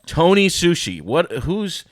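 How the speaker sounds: high, loud disbelief at the name; incredulous double take; baffled reaction. Retold or imitated. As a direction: react like you can't believe the sign. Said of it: "And I'm like".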